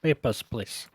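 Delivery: mock Russian border guard accent; a lightly put-on Russian accent. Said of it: "not doing Russian accent any favors".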